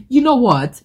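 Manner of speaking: put-on sudden high, loud English accent with a laugh. Telling viewers about spraying the perfume, in an English accent. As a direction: burst into a playful English accent. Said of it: "I don't know where that English accent came from".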